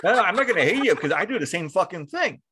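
laughing through the words, high and loud; giggling reassurance; laughing it off with a friend. Real, not acted.

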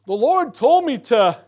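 high, loud, slow pompous claim; mock false prophet. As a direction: proclaim it like a self-important prophet.

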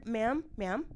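patient but loud emphasis. Retold or imitated. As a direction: spell it out firmly. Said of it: "I used to have to break it down".

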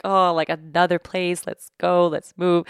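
understated grumble, played for effect; kinda grumpy. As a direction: imitate a mildly grumpy, reluctant traveler. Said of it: "I'm, like, kinda grumpy".

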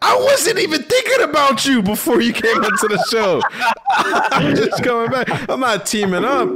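laughing in outraged disbelief. Real, not acted.

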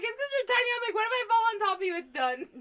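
high, loud retold taunt; hammed-up loud ribbing; mock incredulous teasing. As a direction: tease in a high, exclaiming voice. Retells teasing her tiny friend.

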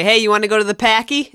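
quick Boston invitation; Boston accent. Retold or imitated. Host imagining co-host's friend suggesting a trip, Boston accent. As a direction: rattle it off like a Bostonian. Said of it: "that guy will never say".

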